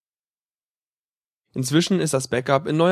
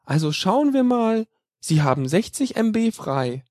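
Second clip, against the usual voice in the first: Mutter Beimer; 6 semitones higher than usual. Acted. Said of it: "Wieder mit Mutter Beimer".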